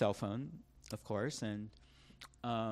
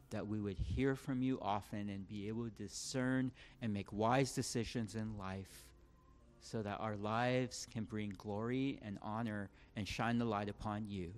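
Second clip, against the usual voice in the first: closing prayer. Real, not acted. Preacher praying to God for the congregation, closing prayer. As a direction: pray aloud, strong on the address, then even and steady.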